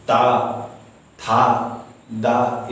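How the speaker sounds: ता था दा said with the tongue on the teeth; touch the teeth for ता था दा; demonstrated dental sounds. Shown as a demonstration. Teacher demonstrating dental sounds to the class. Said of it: "जैसे".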